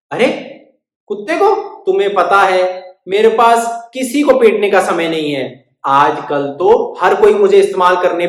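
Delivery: loud weary complaint; grumbling stick. Acted. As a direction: grumble about being overused.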